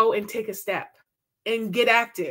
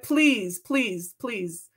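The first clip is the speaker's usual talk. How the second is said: pleading; much slower than usual. Real, not acted. Pleading with the audience.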